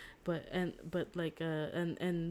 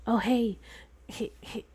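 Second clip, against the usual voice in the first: higher, louder sing-song calls, one slipping to a whisper; playful calling out; 5 semitones higher, 7 dB louder than usual. Retold or imitated. Girl calling to Hercules from the balcony, playfully sing-song. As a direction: tease him from the balcony.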